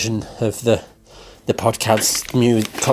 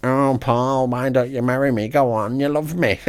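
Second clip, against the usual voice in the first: a lightly voiced swooning mum, a touch higher; playful mock come-on in a lightly raised voice; mimicking Mum; 5 semitones higher than usual. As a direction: mum teasing him with a mock proposal. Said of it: "dancing around the room saying".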